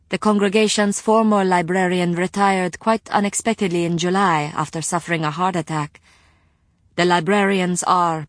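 lightly voiced courteous librarian; polite librarian voice. Rima explains her job.

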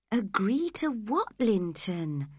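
put-on coaxing a frightened boy, a mild gentle question. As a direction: ask it gently, like a worried friend. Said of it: "she asked gently".

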